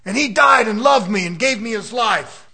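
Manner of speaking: loud, ringing preacher's cry; preaching shout. Acted. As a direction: shout the sacrifice out to the church. Preacher building to a climax.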